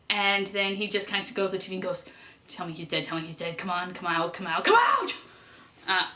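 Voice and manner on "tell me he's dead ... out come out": intense pleading, retold. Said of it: "It's a very intense moment".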